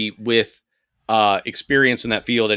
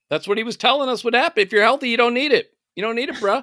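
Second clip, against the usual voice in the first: high, mocking gym-bro advice; 9 semitones higher than usual. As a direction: parody a cocky bro giving advice.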